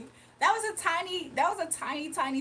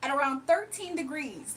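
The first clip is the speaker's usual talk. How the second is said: news reporter voice. Acted. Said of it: "news reporter voice".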